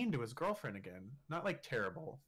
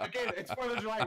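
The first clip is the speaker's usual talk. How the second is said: laughing; 8 semitones higher, 5 dB louder than usual. Real, not acted. Laughing while retelling the fight.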